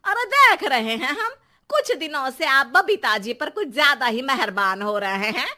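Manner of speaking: mildly acted telling-off, high start that drops; nagging, suspicious wife; scolding wife. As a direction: accuse your husband with mock indignation. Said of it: "शर्माइन Sharma पर बरसती है".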